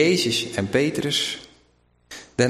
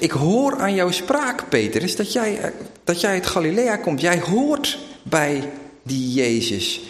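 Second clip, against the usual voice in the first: accusing bystander; 6 semitones higher than usual. Retold or imitated. Bystander exposes Peter's accent.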